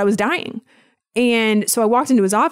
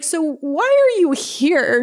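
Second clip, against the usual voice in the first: slow, higher mock-calm therapist question; calm imitated therapist; 8 semitones higher, much slower than usual. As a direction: draw it out like a soothing therapist, higher. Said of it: "She's very calm".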